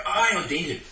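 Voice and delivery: a hint of Micah lamenting; aggrieved Micah. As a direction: voice the wronged idol maker. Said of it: "But then he said that".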